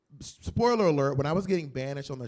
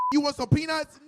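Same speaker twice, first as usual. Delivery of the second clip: a hint of a chirpy male steward, higher; mock flight attendant; 10 semitones higher than usual. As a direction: imitate a straight steward offering snacks. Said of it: "a straight guy holding a f-, bottle of crayon apple going".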